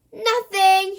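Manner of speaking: loud, high sing-song shout. A narrator's reading. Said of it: "shouted Bertie".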